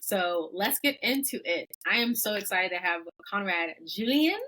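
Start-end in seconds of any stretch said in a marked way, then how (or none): 3.3-4.4 a light British lilt on the name; hint of practiced British accent; playful British accent. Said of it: "in a British way".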